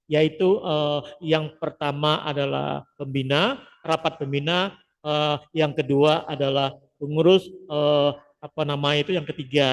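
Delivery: halting with eh and apa namanya; hesitant speech full of fillers; fillers on purpose. Shown as a demonstration. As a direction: stumble with filler sounds. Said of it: "Bandingkan dengan ini".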